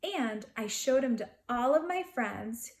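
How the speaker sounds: put-on gentle read-aloud to children; storybook narration voice; story narration. A narrator's reading. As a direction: tell it like a bedtime picture book. Reading a picture book aloud.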